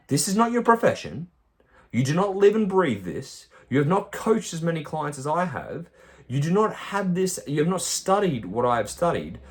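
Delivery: a coach losing patience and pushing hard; heated lecture. Real, not acted. Coach scolding client.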